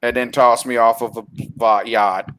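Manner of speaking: monotone villain as tour guide; deadpan mock-tour recital; bored tour guide. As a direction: drone the grievance like a sightseeing fact. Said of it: "sounded like a bored tour guide".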